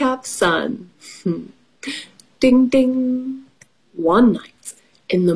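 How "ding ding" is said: a sing-song "ding, ding" held on the last ring; higher ringing ding-ding; sing-song chime. Pretend. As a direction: imitate a little page-turn bell. Page-turn chime in story.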